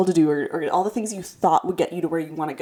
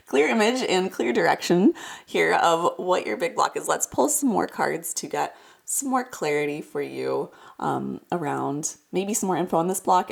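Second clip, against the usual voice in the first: stuffy nose from a cold; speaking through a head cold; congested. Real, not acted. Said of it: "I sound a little congested".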